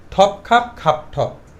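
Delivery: ঠপ খাপ with a puff of air on every T and K; careful slow ঠপ, খাপ with breathy-released stops; aspirated tongue twister. Shown as a demonstration. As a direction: say ঠপ খাপ খাপ ঠপ slowly, each first consonant aspirated. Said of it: "ঠি বলবো".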